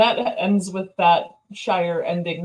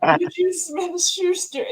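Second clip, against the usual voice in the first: put-on drunk slur; 8 semitones higher than usual. Shown as a demonstration. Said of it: "can't even say it normal".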